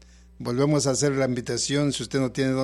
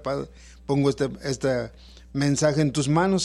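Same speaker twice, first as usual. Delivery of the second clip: prayer. Acted. Pastor prays before the sermon.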